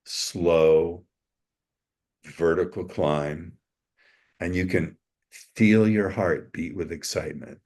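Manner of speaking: measured, suggestive delivery with long pauses; intriguing storytelling voice. Shown as a demonstration. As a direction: draw the listener in, lingering between phrases. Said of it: "in a way where your voice is intriguing".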